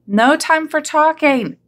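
shout. A narrator's reading. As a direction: hurry them along in a high voice. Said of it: "shouted Hippo".

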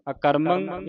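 ਅਕਰਮੰ as one word ending in 'ang'; demonstrated nasal ending. Shown as a demonstration. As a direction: model ਅਕਰਮੰ with a ringing -mang. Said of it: "ਇਸ ਤਰ੍ਹਾਂ ਪੜ੍ਹਨਾ ਹੈ".

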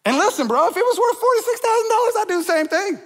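high, fast excited outburst with a laugh. Real, not acted. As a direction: burst out laughing at the price. Excited joke about the price.

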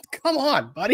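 high pitched, laughing scoff; laughing come on. Real, not acted. Speaker laughing off Nick's claim, high-pitched and amused. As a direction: chuckle it out in disbelief.

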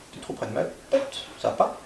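hushed, whispered word to the dog; a quiet whisper to the dog right at the face; whispered aside. Real, not acted. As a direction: drop to a whisper, close by. Dog too close to face.

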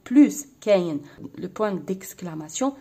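usual speaking voice

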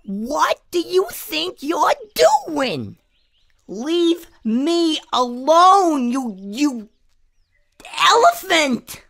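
high-pitched indignant character yell; outraged little bush voice, high and slow; angry yell. A narrator's reading. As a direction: yell at the intruder, drawing out the words. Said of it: "that bush yelled at Ellison".

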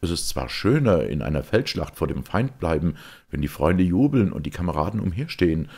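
lightly voiced youth with spirited emphasis; a hint of soldierly resolve; resolute young knight. Georg speaks of death in battle, spirited.

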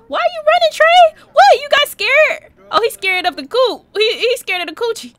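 high, loud mocking call; loud, high-pitched teasing; teasing shout. Real, not acted. Teasing a fleeing game character.

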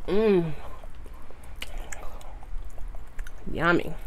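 eating crab while talking; chewing. Real, not acted. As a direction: mouth full of food. Seen 0: Crab meat bitten just before; lips closed, working mouth during "mm, yummy.

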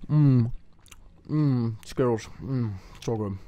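loud mock munching with mouth full; hammed-up happy eating sounds; exaggerated chewing noises. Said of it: "gonna be really nasty to just hear".

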